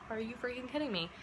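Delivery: retold outrage at being checked yet again; hushed disbelief exploding into a loud "Why?"; exasperated disbelief. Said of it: "and I'm like".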